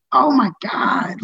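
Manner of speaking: slow, drawn-out astonishment; mock amazed gasp. Comic recalling seeing Roseanne, slowly amazed. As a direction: let the shock stretch out slowly. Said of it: "and I was like".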